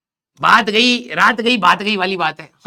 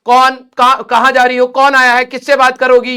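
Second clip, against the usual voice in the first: rapid-fire louder questions from mom; mock-interrogating mother, louder; nosy mom grilling; 2 semitones higher, 7 dB louder than usual.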